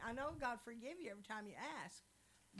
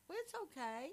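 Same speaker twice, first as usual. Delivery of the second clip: quoted husband's quip; 4 semitones higher, 5 dB louder than usual. Retold or imitated. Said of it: "and my husband goes".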